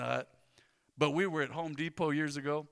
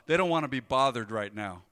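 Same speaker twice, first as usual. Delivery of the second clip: smart aleck remark; 4 semitones lower, 6 dB louder than usual. Retold or imitated. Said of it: "smart aleck comment".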